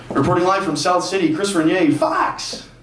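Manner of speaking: over-the-top newscaster sign-off, drawn out; milk the station name like a hammy reporter; Chris Renier. Retold or imitated. Reporter live from South City, hammed-up drawn-out sign-off. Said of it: "It's over the top".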